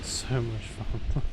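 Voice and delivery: slow dry sarcasm; deadpan, slowed irony; sarcastic. Real, not acted. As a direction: drag it out, clearly not fun. After dying.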